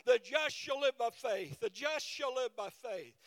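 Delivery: loud, ringing preacher holler; old preacher hollering scripture; hollered preacher quote. Retold or imitated. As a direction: call it out like an old gospel preacher. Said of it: "he hollered out".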